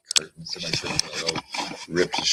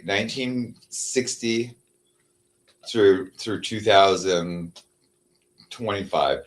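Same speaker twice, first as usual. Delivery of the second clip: very slow, spelling out the dates; slow dictation; 3 semitones higher, much slower than usual. Shown as a demonstration. Entering dates for the chatbot, dictated slowly. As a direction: spell out each number slowly. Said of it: "I'll say".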